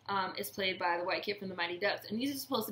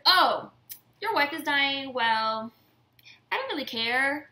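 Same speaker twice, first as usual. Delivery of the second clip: high, louder mock of a selfish woman; mocking Karen; 4 semitones higher, 5 dB louder than usual. Mimicking Karen dismissing Ben's dying wife, high and loud. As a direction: toss off the dying wife with a sneer.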